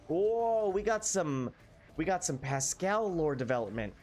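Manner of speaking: excited. Real, not acted. Excited by story reveal.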